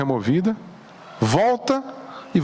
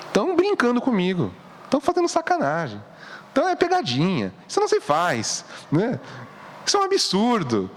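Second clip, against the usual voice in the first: indignant protest; 4 semitones higher than usual. Acted. Voices Mary's imagined indignant protest.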